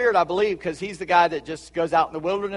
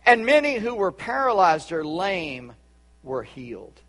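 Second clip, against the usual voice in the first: scripture reading; 2 semitones higher, 3 dB louder, slower than usual. Acted. Preacher reads of the lame being healed, in measured proclamation. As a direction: read it out slowly, letting the ending settle.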